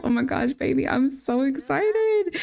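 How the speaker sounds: high-pitched acted squeal of joy; excited mom. Mom hugging her pregnant daughter-in-law at the news, excited. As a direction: gush like a thrilled mom, pitched right up.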